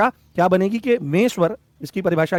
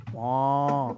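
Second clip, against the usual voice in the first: short laugh; 5 semitones lower, 7 dB quieter than usual. Real, not acted. Aside during lesson.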